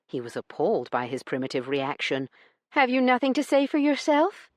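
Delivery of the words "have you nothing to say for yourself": high, sharp demand. A narrator's reading. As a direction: demand an answer from him. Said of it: "she demanded".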